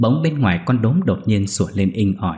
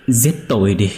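louder plea; 4 dB louder than usual. Acted. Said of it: "thều thào không ngừng cầu xin".

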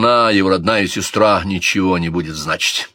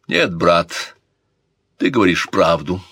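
icy; 2 semitones lower than usual. Acted. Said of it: "жёстко, ледяным голосом".

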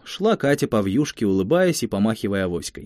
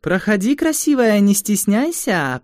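sing-song gypsy invitation; 10 semitones higher, 3 dB louder than usual. Acted. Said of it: "пригласила Лиля".

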